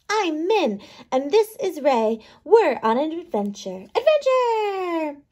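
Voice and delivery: lightly voiced little microbes, curious; small bugs chatting in a mouth; microbe characters. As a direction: play the tiny cavity-diggers with cheeky glee. Microbes introduce themselves.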